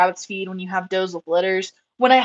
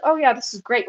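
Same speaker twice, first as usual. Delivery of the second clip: imitating an offhand compliment; nonchalant; 3 semitones higher than usual. Hard-to-impress mentor praising her rabbit, nonchalantly. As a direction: toss the praise off casually. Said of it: "says it in the most nonchalant way".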